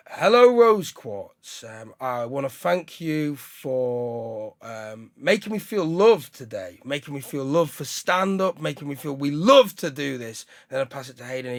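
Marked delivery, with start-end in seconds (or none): 0.1-10.4 slow, solemn thanks to a stone; half-mocking reverent ritual address; reverent crystal greeting. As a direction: greet the crystal like a sacred friend. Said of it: "I'd go".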